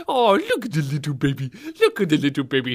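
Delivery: put-on cooing at a baby, slurred, rising high at the end; mock baby talk. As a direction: imitate someone pinching a baby's toes. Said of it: "Pinching a little baby's toes like".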